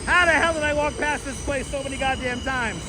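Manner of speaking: can't believe he missed it; amazed disbelief. Real, not acted. Streamer stunned the bakery was right there, amazed.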